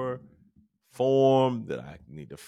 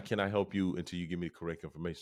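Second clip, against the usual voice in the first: speaking very quickly; 5 dB quieter, much faster than usual. Retold or imitated. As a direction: imitate a rapid, rote phone agent. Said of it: "she spoke very qu-, quickly".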